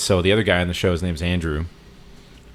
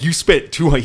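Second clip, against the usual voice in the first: high, louder mock outburst; retold freak-out; 8 semitones higher, 5 dB louder than usual. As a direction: imitate someone losing it over a shocking price. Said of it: "he starts freaking out on him".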